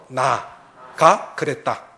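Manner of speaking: drawn out very slowly for the congregation to echo; slow repeat-after-me. Shown as a demonstration. Pastor leads the congregation word by word, very slow. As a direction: stretch each syllable so they can follow. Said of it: "따라해보세요".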